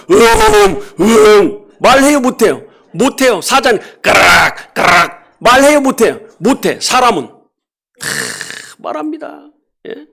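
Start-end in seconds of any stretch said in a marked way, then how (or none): 0.1-1.7 loud growling tiger sound. Pretend. Preacher growling like a tiger for the congregation. 4.0-5.4 slow, loud roaring lion sound. Pretend. Preacher roaring like a lion to the crowd.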